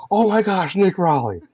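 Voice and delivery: excited nerd gushing a name; Nick Riley voice. Acted. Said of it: "It's the voice".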